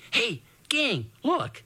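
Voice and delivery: put-on high, startled boy's call to his friends; excited gasp. Portry calling the gang to his find, gasping. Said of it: "he gasped".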